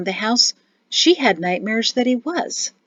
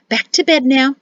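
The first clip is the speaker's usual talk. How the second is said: forced cheer; 5 semitones higher, 6 dB louder than usual. A narrator's reading. Mother forcing cheer, ushering kids.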